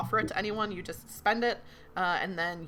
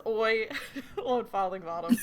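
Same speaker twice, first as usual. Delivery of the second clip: put-on Cockney accent. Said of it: "horrible Cockney accent".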